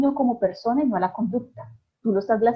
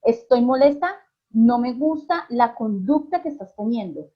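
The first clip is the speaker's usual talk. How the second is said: a firm, displeased correction, voice raised a little; firm disapproval. Shown as a demonstration. Mother to misbehaving child, firm and displeased. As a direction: let the child hear you disapprove. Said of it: "hacer un cambio en mi expresión de la cara".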